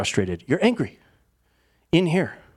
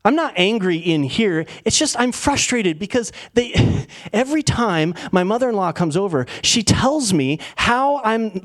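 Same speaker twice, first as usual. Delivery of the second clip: higher, worked-up self-justifying complaint; mock exasperation; 4 semitones higher than usual. Venting about a mother-in-law's criticism, acted exasperation. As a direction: protest with mild exasperation, dragging out key words.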